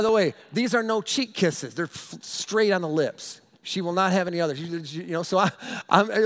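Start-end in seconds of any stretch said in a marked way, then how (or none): none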